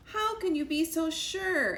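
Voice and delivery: doubtful mother hen. A narrator's reading. Moosh doubts Sugar.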